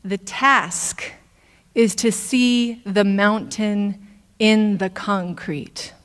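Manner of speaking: slow, gently measured quoted teaching; unhurried, mildly loving reply. Retold or imitated. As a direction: quote a teacher's counsel with mild tenderness. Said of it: "lovingly says".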